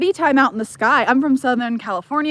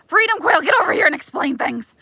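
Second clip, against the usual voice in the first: high, louder playful summons; calling out; 6 semitones higher, 4 dB louder than usual. Pretend. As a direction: call them over, mock bossy. Summons someone by name.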